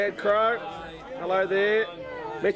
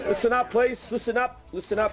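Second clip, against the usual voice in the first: higher-pitched teacher calling for attention; teacher calling order; 4 semitones higher than usual. Real, not acted. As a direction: call the room to order like a teacher. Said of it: "it's the teacher in me".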